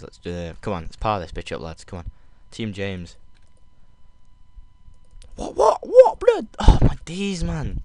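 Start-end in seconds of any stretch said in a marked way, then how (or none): 5.4-7.8 high, loud London-style outburst; London slang accent. Real, not acted. Gamer shocked mid-fight, loud London-accented squeal. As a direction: squeal it in London street talk. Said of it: "I'm talking like I'm from London".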